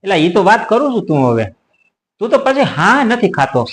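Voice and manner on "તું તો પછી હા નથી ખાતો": higher, laughing mock scolding; laughing complaint. Real, not acted. Scolding the friend who keeps interrupting, laughing. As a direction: chide him through a laugh.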